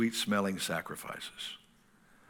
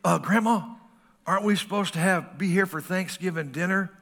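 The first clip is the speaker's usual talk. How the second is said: careful; 6 semitones higher than usual. Retold or imitated. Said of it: "you say carefully".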